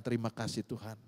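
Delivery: quiet thanks. Retold or imitated. Retold thankful prayer.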